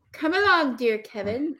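lightly voiced adult herding a toddler; minder to toddler. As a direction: coax along a small child, mildly put on. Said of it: "like, a small toddler".

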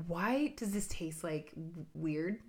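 trailing off low and soft; wondering quietly over a bad bite; puzzled mutter to self. Puzzled reaction to pizza retold.

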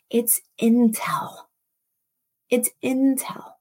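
hushed, breathy secret whisper. Real, not acted. Preacher whispering to the congregation, hushed.

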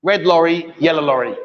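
"Red lorry, yellow lorry" said slowly, falling on "yellow"; "Red lorry, yellow lorry" spaced out for a learner to copy; slow tongue twister demo. Shown as a demonstration. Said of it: "I want you to say after me".

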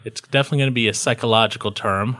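ordinary talk, nothing marked

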